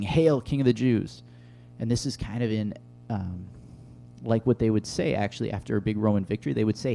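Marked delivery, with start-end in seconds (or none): 0.0-1.2 mock hail. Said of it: "they finish it off by saying".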